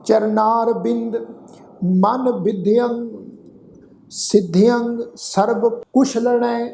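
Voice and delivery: slow, drawn-out gurbani chant; slow recitation. Shown as a demonstration. Teacher reciting the whole shlok for the sangat, slow chant. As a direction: lay out every syllable of the shlok slowly. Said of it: "ਇਹਨੂੰ ਸੁਣੋ ਧਿਆਨ ਨਾਲ".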